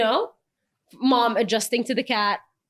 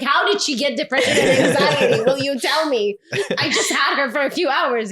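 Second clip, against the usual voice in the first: incredulous question; 4 semitones higher than usual. Retold or imitated. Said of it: "And I'm like".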